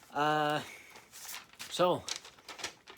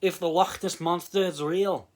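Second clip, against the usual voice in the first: mock Scottish accent; 4 semitones higher than usual. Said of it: "I won't do a Scottish accent for the actual review".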